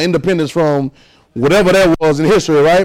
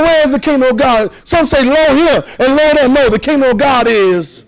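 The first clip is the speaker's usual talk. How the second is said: higher, urging; fervent preaching; 5 semitones higher than usual. Real, not acted. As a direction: press the question to the room. Preacher builds in pitch.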